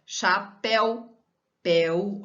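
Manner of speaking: Chapéu slowly, cha-PÉU, then péu alone; stress on PÉU. Shown as a demonstration. Teacher pointing out the strong last syllable, stress on PÉU. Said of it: "a última sílaba, ela tem a pronúncia mais forte".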